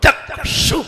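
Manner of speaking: चक्षु breathed with sharp क्षु; careful चक्षु. Shown as a demonstration. Teacher drills चक्षु for practice. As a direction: hit the क्षु cluster clearly. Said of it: "ध्यान देना है".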